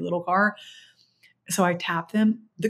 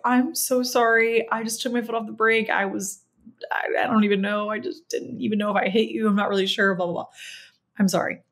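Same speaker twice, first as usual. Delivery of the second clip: flustered apology; 3 semitones higher than usual. Retold or imitated. Apologizing to the driver.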